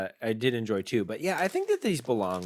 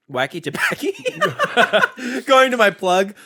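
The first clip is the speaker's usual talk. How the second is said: high, laughing put-on voice; buyer voice; 8 semitones higher, 7 dB louder, slower than usual. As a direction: play a giggly buyer asking the plug. Role-plays buying from dealer.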